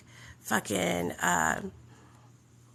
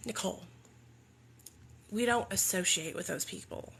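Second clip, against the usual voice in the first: hushed sponsor; 9 dB quieter than usual. Retold or imitated. Sponsor voiced in retold story.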